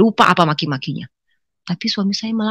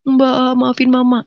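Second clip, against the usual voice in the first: higher, slow imitated crying; tearful plea; 6 semitones higher, slower than usual. Crying younger sibling speaking to sister, tearful plea. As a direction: drag it out like a weeping sibling. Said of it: "Adik saya yang menangis".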